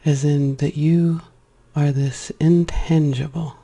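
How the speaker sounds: measured meditation voice, pausing between phrases; spacious, reverent meditation delivery; guided meditation. Acted. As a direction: let each word land slowly, guiding inward. Returns to the meditation.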